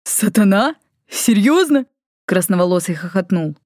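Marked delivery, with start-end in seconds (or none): 0.0-1.8 high, scoffing double-take; mocking disbelief. A narrator's reading. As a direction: laugh it off as absurd. Valifor scoffs with a laugh.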